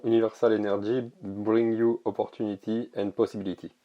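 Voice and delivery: trying for an English accent, not quite managing it; French speaker's earnest go at an English accent; attempted English accent. Real, not acted. Card presenter reading English text to viewers, attempted English accent. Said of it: "ce magnifique accent anglais".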